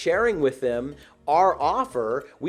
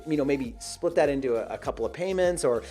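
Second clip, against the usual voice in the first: nervous waffling; 2 semitones higher, faster than usual. Shown as a demonstration. Salesperson nervously stating price to a prospect, waffling. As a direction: stumble nervously over the price. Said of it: "and they sound nervous".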